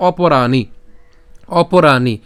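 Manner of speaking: অপরাণি opening on a short "o", long "raa"; teacher clearly sounding out অপরাণি; pronunciation demo. Shown as a demonstration. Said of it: "তাহলে উচ্চারণটা কেমন?".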